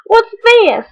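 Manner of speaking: high, curious voice; a fox sniffing something. Acted. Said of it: "He sniffed the mitten".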